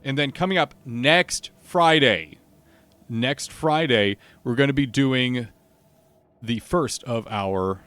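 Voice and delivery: announcing loudly before hushing; full streamer announce voice; loud then suddenly hushed. Real, not acted. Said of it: "I have to be quiet because Kat just opened their mic up".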